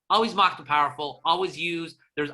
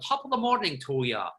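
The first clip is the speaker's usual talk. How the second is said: Irish brogue. Retold or imitated. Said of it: "very much on the accent".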